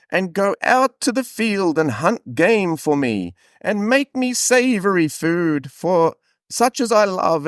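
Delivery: put-on high, very slow old Scottish man; a frail Scottish elder, dragging every word. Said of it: "you're nailing the Scottish accent".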